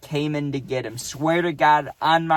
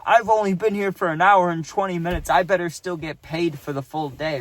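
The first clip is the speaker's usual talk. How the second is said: imitating an indignant protest, pitched up at first; not having it; 3 semitones higher than usual. Santa protests to the manager, imitated refusal to accept it. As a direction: push back as the wronged worker. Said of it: "But he was not having it".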